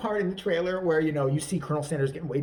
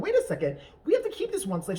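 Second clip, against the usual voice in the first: laughing; 9 semitones higher, faster than usual. Retold or imitated. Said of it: "she's like".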